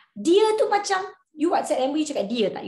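ordinary delivery

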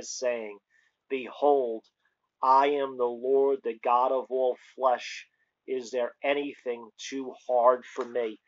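solemn, emphatic scripture reading. Acted. Reads scripture aloud.

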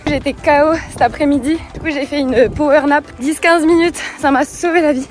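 talking while jogging; while running. Real, not acted. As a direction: speak with a runner's breath. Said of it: "J'essaye de vous parler en courant".

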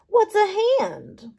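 squeaky puzzled bug voice; tiny microbe who never heard of hands; high, slow confused microbe. Acted. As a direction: ask it with innocent wonder. Ray confused.

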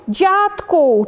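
high, falling call to grandpa; lightly voiced scarecrow creature calling; monster calling out. A narrator's reading. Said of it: "czupiradło woła".

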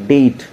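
"डेट" said as det, no b; short "डेट" ending straight on t; silent B. Shown as a demonstration. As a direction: leave the b out of "डेट". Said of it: "होता क्या है".

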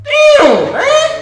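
high frantic shouting; panicking gamer. Real, not acted. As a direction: yell in panic at the screen. Panicking during game play.

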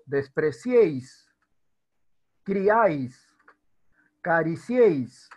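despreciéis, criáis, cariciéis slow with three vowels glided; drawn-out triphthongs. Shown as a demonstration. Teacher giving triphthong examples, drawn out. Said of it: "tres vocales en una sílaba".

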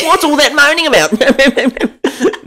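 high, slow, laughing moan; hammed-up whinge, very slow and high; moany voice. Shown as a demonstration. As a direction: drag the whinge out, cracking up. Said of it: "No one's happy when they're moaning".

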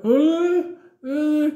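very high, loud baffled "Huh"; a startled boy's squeal; confused yelp. Retold or imitated. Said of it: "He was like".

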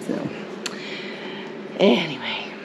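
soft breathy whisper of anyway. Real, not acted. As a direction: murmur anyway under the breath. Hushed aside after dinner tour.

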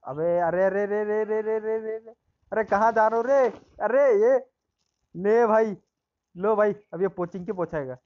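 loud, high excited yelling; esports caster. Real, not acted. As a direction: shout at the runaway teammate. Panic as teammate runs off.

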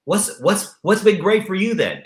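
hammed-up delighted friend; amazed listener. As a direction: gush over the good news. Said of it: "They go".

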